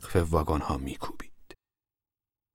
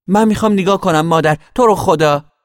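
put-on higher, louder childish begging; pleading child; 11 semitones higher, 9 dB louder than usual. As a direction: beg mother to let you stay and watch. Child begs to watch.

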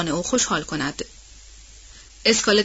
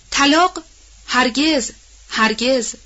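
raised, higher-pitched outburst of refusal; involuntary cry; 5 semitones higher, 4 dB louder, much slower than usual. A narrator's reading. Wife refusing her husband's talk of divorce, crying out. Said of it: "بی اختیار فریاد زد".

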